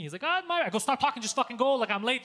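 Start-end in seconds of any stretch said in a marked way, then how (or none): 0.2-0.6 lightly imitated African accent, higher pitched; a hint of an African driver's accent. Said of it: "this African guy comes and gets me". 0.8-2.2 higher, pressing retold order; urgent. Retelling urging driver to hurry.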